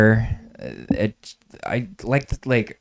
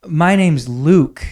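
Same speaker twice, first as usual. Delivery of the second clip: put-on proud kid voice; 7 semitones higher, 6 dB louder, much slower than usual. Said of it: "I'd be like".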